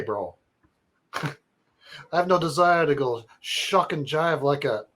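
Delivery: a hint of New York bro reading; New York accent. Reading Nick's email in a mild New York accent. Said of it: "wanna do a New York accent".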